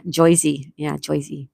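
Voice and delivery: mock New Jersey pronunciation, "Joy-zee"; Jersey accent. Shown as a demonstration. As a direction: imitate a Jersey local. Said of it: "the Jersey accent".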